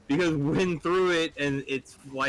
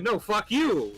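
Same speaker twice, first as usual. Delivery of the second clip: rabbit yelling back; 9 semitones higher, slower than usual. Acted. Rabbit argues in joke.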